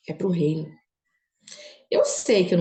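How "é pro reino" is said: "É pro reino" whispered, no voice; whispered echo. Retold or imitated. God's answer, repeated softly.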